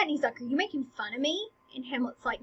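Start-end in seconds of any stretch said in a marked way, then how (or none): 0.4-1.5 acted touchy question, lilting upward; mildly upset. Laertes challenging Hamlet's teasing, mildly upset. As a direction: ask it as if a little offended. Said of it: "kind of gets upset".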